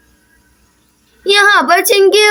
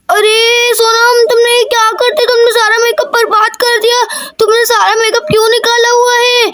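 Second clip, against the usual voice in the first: higher-pitched scolding mom voice; scolding mother; 4 semitones higher than usual. Acted. Mother scolds Sonam for ruining her makeup, higher scolding voice. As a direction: scold the kids for wasting makeup.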